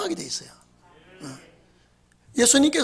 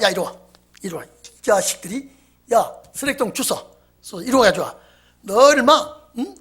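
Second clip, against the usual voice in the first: scolding. Retold or imitated. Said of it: "막 호통을 치니까".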